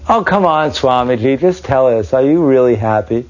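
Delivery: put-on high, insistent plea from a young man; pressing student. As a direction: push him, half teasing, to answer. Boy pressing the swami again.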